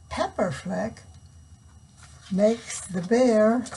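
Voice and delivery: lively storybook read-aloud; reading to children. Acted. Reading picture book to children.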